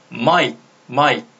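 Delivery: 마이크 run together, final k tucked in; quick reading. Shown as a demonstration. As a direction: say 마이크 quickly as one syllable, k barely released. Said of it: "빨리 읽는다면".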